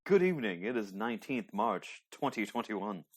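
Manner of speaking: crisp posh British announcer voice; mock BBC news announcer; posh BBC newsreader. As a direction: read it like a BBC World Service presenter. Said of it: "he had that nice posh voice".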